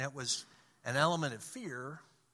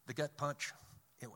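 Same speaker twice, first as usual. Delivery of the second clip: ordinary talk, nothing marked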